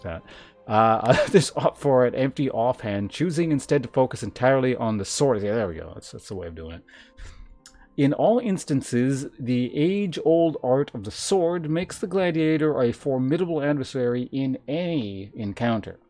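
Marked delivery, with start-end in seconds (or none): 1.3-5.4 emphatic, measured reading of lore; game text read-aloud. Acted. Streamer reads gladiator class lore to chat, emphatic read-aloud. 8.0-16.0 emphatic, measured reading of lore; game text read-aloud. Acted. Streamer reads gladiator class lore to chat, emphatic read-aloud.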